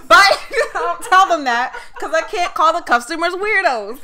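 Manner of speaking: talking loudly through laughter; high, loud, breaking into giggles; real laughing. Real, not acted. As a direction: crack up while explaining yourself. Laughing at her own story.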